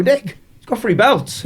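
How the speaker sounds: high, drawn-out exclamation through a laugh; mock alarm, slow and high-pitched; retold alarmed amazement. Boxer retelling his shock at the rival's belts, amused alarm.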